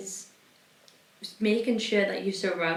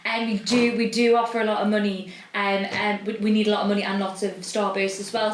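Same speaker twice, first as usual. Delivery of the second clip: louder, hammed-up sales pitch; mock sales pitch; 3 semitones higher, 5 dB louder than usual. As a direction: pitch it like a cheesy ad.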